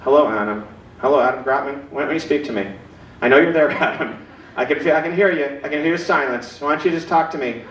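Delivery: lightly voiced menacing caller; creepy bill collector. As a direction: lure him out like a ghost on the line. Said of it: "the guy goes".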